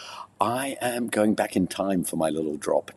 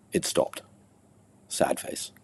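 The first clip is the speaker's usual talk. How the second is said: hushed sad; 4 dB quieter, slower than usual. Acted. Poem's sad turn.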